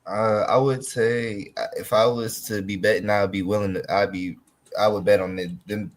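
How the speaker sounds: stumbling, repeating words; stuttering. Real, not acted. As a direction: stutter and restart the sentence. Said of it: "I'm stuttering today".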